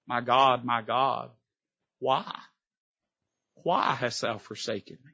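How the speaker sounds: Jesus on the cross, hushed and broken; anguished cry. Acted. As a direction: let the words ache and fade.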